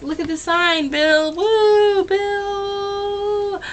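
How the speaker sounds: high, loud fan cheer; calling out. Retold or imitated. Fan hailing the singer to see the sign, calling out. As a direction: whoop for the singer and draw the name out.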